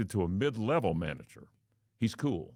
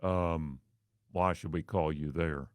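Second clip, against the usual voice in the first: bland manager; 3 semitones lower than usual. Retold or imitated. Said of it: "bland almost".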